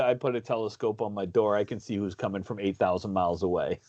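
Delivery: a hint of Hedberg, low and hushed; Mitch Hedberg joke. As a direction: tell it like a lightly imitated Mitch Hedberg. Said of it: "but anyway, Mitch Hedberg".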